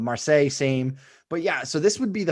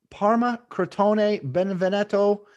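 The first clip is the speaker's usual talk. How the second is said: hammed-up Italian accent, higher; mock Italian pronunciation of team names; bad Italian accent; 7 semitones higher, slower than usual. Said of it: "Look at my fucking terrible Italian accent".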